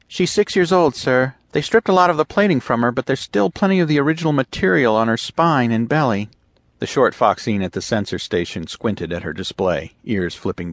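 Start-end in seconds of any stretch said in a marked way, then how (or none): 0.1-6.3 put-on higher, eager young officer voice; eager lieutenant. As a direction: report the find with keen urgency. Lieutenant reports ship age.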